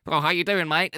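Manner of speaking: quick, casual Australian greeting; light Australian impression; Australian accent. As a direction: toss off an Aussie hello. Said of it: "I don't need to convince anyone I'm Australian".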